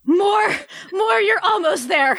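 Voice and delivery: hammed-up breathless begging; urgent plea. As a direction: egg her on, pleading. Acted urging in scene.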